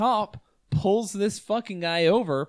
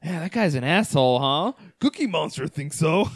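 talking to doll. Retold or imitated.

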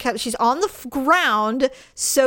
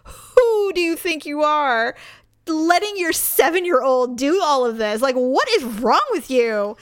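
furious inner rant. Retold or imitated. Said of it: "And I'm like".

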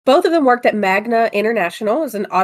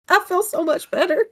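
chirpy reply; 10 semitones higher than usual. Retold or imitated. Replying to the customer.

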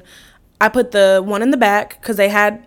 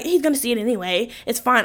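put-on dismissive boyfriend; 7 dB quieter than usual. Voices boyfriend brushing it off.

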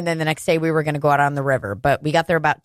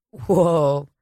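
stoned friend; 4 semitones lower than usual. Retold or imitated. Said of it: "Sophia's like".

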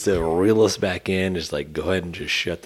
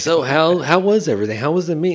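high, loud cheery waiter voice; mock waiter; 10 semitones higher, 4 dB louder than usual. Waiter asking about the meal, high cheery voice. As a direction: chirp it like an eager server. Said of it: "The roller was like".

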